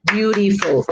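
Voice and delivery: "Beautiful" measured out in three beats; syllable by syllable. Shown as a demonstration. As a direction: sound out each syllable of "Beautiful". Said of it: "Three syllables".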